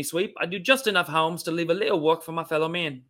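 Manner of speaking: rough attempt at a Cockney chimney sweep; badly faked London working-class Cockney; Cockney accent. Shown as a demonstration. Host playing a chimney sweep on the docks, shaky-authenticity Cockney accent. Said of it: "Do a London Cockney accent".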